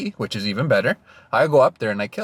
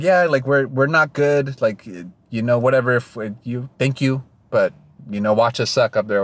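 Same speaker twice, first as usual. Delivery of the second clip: Californian voice; 2 semitones higher than usual. Retold or imitated. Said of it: "I live in SoCal".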